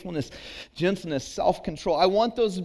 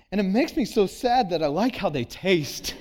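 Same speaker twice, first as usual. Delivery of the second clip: mock heartbroken confession with a laugh; broken-hearted confession; 3 semitones higher than usual. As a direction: fake the daughter's tragic admission, laughing through it. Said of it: "broken-hearted confession".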